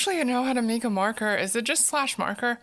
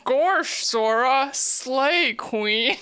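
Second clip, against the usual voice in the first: loud cartoon-dog voice with Valley Girl lilt; Goofy as Valley Girl; 3 dB louder, much slower than usual. Shown as a demonstration. Streamer merging two impressions, goofy Valley Girl. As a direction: blend a goofy "gorsh" with Valley Girl gush. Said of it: "do Valley Girl goof".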